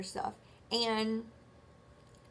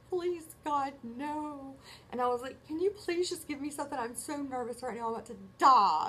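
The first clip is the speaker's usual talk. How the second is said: mock panicked pleading; 5 semitones higher than usual. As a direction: beg like you're about to die, hammed up. Begging the nurse, retold.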